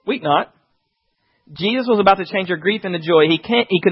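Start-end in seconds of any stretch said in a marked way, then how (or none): 0.0-0.5 gently said. A narrator's reading. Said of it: "gently said".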